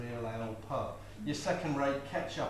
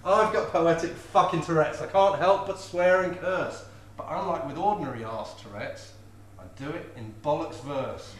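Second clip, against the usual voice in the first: loud recital; 4 semitones higher, 7 dB louder than usual. Acted. Launches comic swearing poem.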